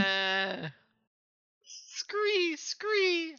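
very high, soft squawking gulls; seagull cries. Pretend. Co-host voicing seagulls for the reading, screeching. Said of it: "I'll do the seagulls".

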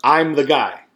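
slow, careful announcement with a touch of laughter; lightly acted cautious call to a stranger; trying to get attention. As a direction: announce yourself slowly, half amused. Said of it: "trying to get his attention".

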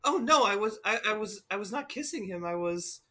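soft, halting denial; flustered protest. Acted. Starfire denying to Raven that it was kissing, flustered and soft. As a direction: trail off softly while explaining yourself.

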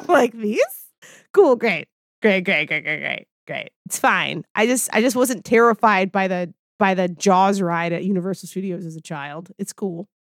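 dry, resigned "great, great, great"; sarcastic fake calm. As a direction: pretend it's all fine through gritted teeth. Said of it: "And I was like".

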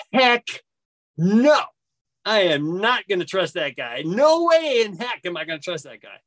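retold defiant inner protest; adamant refusal. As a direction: dig your heels in, punching the first words. Inner refusal of a voice urging trust.

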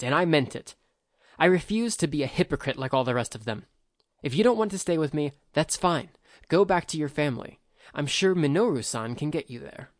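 put-on young noble angrily insisting on his choice; indignant. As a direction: push back hard, refusing to be told. Akio angrily rejects Kane's warning.

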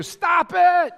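sudden loud shout, high and forceful; yelling. Real, not acted. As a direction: bark it out to jolt the crowd. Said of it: "here's why I'm yelling".

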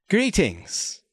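high mimicked greeting; Salon. Talking bird greets Marco, high borrowed voice. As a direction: start high and let it fall, a borrowed voice. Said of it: "in a voice that sounds like Salon".

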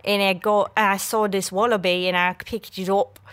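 wobbly mock Australian storytelling; amateur Australian impression; bad Australian accent. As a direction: tell the tale in a poorly faked Australian accent. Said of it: "I'm so bad at Australian accent".

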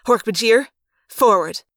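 loud call to charge; command. Acted. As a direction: order them forward. Commander orders the attack.

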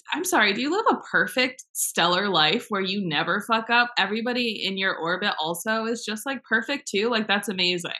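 high mock apology, easing down; sarcastic challenge. Viewer challenging online critics who cancel people, sarcastic. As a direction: feign amazement at their perfection.

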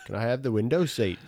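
badly faked British accent; mock British lilt; a famous drummer. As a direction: ask as a dopey Liverpool drummer. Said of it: "so I could be the drummer".

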